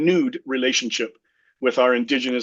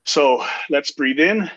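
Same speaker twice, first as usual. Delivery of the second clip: guided deep breathing. Shown as a demonstration. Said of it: "take three deep breaths".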